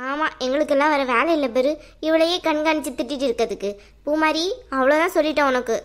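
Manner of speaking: low-pitched, indignant comeback; irritated retort. Acted. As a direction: push back at the accusation, annoyed. Accused woman retorts in quarrel.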